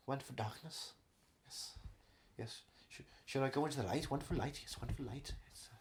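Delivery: very soft, fading, as if slipping away; mock dying. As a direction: play a hushed deathbed drift into the light. Acting out his own death.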